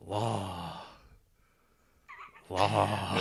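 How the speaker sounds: lightly voiced dreamy murmur; musing Fonda.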